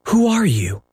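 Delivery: high, sharp call through a closed door; Peter calling out. A narrator's reading. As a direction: call out to an unseen knocker, on edge.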